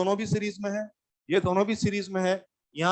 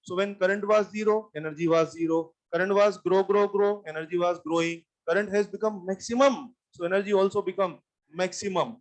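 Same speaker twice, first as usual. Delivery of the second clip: slow explanation; much slower than usual. Real, not acted. Teacher explains slowly in English.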